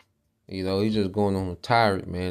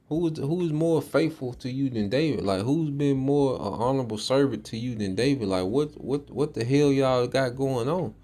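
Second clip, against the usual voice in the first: higher, pleading disbelief; incredulous defence; 4 semitones higher than usual. Retold or imitated. Preacher voices the priest defending David to King Saul, higher and incredulous. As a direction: ask it like you can't believe the charge.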